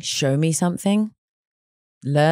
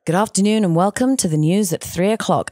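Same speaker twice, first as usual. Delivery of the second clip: news anchor voice; 4 semitones higher than usual. Shown as a demonstration. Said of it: "so if I was news, I would say".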